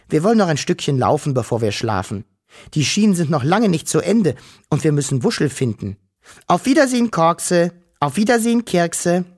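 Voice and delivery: high, eager little Wischel; small creature voice. Acted. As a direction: call out goodbyes in a bright little voice. Wischel farewell.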